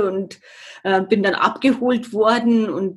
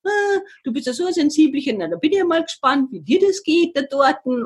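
teasing friend; 6 semitones higher, faster than usual. Retold or imitated. Friend teasing her before trip.

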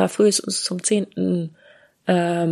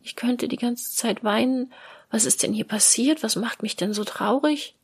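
near tears; 4 semitones higher, 4 dB quieter than usual. Retold or imitated. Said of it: "so ein Gefühl von".

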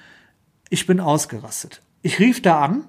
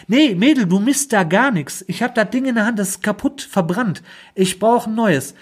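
mock angry retort; 5 semitones higher than usual. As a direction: snap back at the hotline lady, higher. (wütend gespielte Antwort an die Hotline-Dame)

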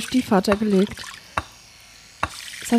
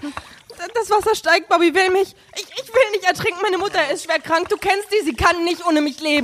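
panicked pleading; 5 semitones higher than usual. Acted. Drowning woman begging Bobby.

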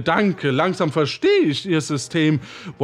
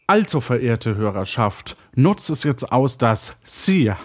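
radio host voice; 5 semitones lower than usual. Acted. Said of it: "drei, zwei, eins".

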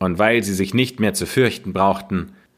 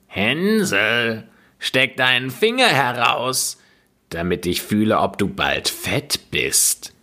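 witch calling; 2 semitones higher than usual. Acted. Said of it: "schlich die Alte zu dem Ställchen und rief".

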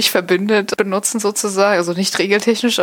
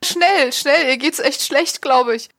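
feigned urgency; 5 semitones higher, slower than usual. Acted.

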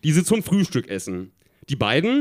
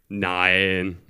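low, drawn-out no; boy's reply; 9 semitones lower than usual. A narrator's reading. The boy answers Tina's holiday question, low-voiced. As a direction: drop low for the other character's answer. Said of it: "antwortet der Junge".

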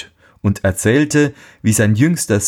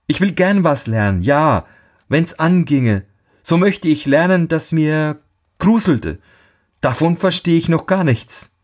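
higher, earnest simple-minded lad; naive boy; 7 semitones higher than usual. A narrator's reading. Youngest son answers his father, naive and higher. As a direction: answer eagerly, wide-eyed.

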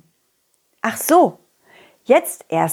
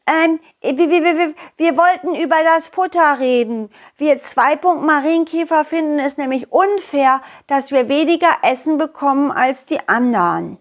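nervous little ladybird; 4 semitones higher than usual. Acted. Nervous small ladybird Piet.

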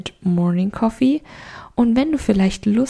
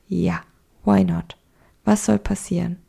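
brave inner voice. Retold or imitated. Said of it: "dieser Stimme vertraust und sagst".

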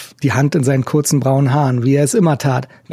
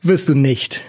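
mocking laugh, then dry words; scornful laugh; 3 semitones higher than usual. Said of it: "Er lachte höhnisch auf". (höhnisch auflachend)

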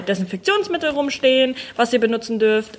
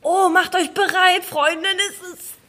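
announcer voice; 6 semitones higher, slower than usual. Acted. Announcing her coming sneeze.

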